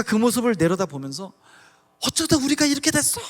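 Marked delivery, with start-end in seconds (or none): 2.0-3.2 despairing lament. Retold or imitated. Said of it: "하염없이 우".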